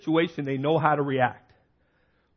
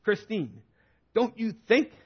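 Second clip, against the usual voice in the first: halfway down the stairs with a freezer, complaining at his wife in a higher, mock-angry voice; retold yelling; 7 semitones higher than usual. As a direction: replay the frustrated yelling lightly, voice climbing high. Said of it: "I'm screaming and yelling".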